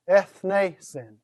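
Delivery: "Ethnesen" slowly, in three even syllables; measured, divided "Ethnesen". Shown as a demonstration. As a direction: sound out "Ethnesen" piece by piece. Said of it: "You want to separate those things".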